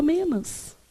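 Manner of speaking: "menos" said as "menas", ending in A; nonstandard word ending. Shown as a demonstration. Teacher citing worse cases of popular speech, nonstandard ending. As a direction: end "menos" on an A sound, softly. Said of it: "Em situações piores, fala".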